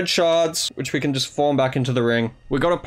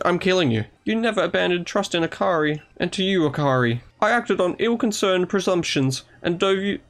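higher, formal and contrite; lightly voiced apologetic commander; 5 semitones higher than usual. Commander apologising to Akari while player mocks threats. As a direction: apologise solemnly, then turn threatening.

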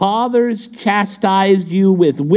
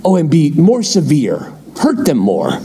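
low-pitched mock counsel to a king; young royal adviser; 3 semitones lower than usual. Palace brats advising the new king, low-pitched mock counsel. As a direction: play the scheming adviser, pitched down.

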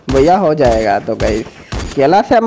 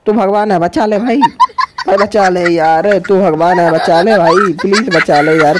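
desperate pleading; 4 semitones higher than usual. Real, not acted. Begging Kailash for a save.

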